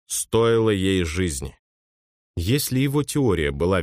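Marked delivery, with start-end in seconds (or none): 0.1-1.6 slow, heavy, ominous words. Acted. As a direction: let the doom sink in slowly. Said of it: "зловеще произнёс Росс". (медленно и зловеще)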